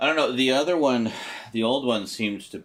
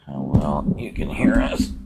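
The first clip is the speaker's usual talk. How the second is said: whisper; 4 semitones lower, 6 dB louder than usual. Real, not acted. Testing mic across room.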